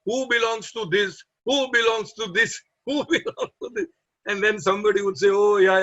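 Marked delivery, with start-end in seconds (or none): 0.0-3.9 higher-pitched mimicked call to a crowd; imitating a lost-property announcer; special English call-out. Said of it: "in his special English, he would say". 5.3-5.8 louder, quick claim of a lost item; eager claim. Retold or imitated.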